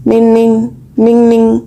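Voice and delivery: imitated phone ring. A narrator's reading. Narrator mimics the string phone ringing, short repeated chime. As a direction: voice a little ringing "ming ming". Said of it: "നൂൽ phone അടിച്ചു".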